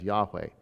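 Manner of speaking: Yahweh said as YAH-weh, stress on the first syllable; careful YAH-weh, first syllable stressed; Yahweh pronounced. Shown as a demonstration. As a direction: give Yahweh slowly, YAH then weh. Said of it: "pronounces it for you as".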